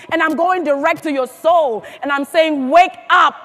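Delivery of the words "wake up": loud, punched wake-up call; rousing call. Real, not acted. Speaker urging the audience's souls to wake up, rousing call. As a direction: call out to rouse the crowd.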